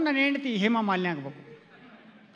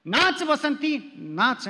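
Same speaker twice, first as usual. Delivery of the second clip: very slow, drawn-out mock villain command; Gabbar Singh; much slower than usual. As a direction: play the film villain to the wife, lightly. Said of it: "ನಾನು ಗಬ್ಬರ್ ಸಿಂಗ್ ಆಗಿ ಹೇಳಿದೆ". (ಹೆಂಡತಿಗೆ ಗಬ್ಬರ್ ಸಿಂಗ್ ಆಗಿ ತುಂಬಾ ನಿಧಾನವಾಗಿ ತಮಾಷೆಯ ಆದೇಶ)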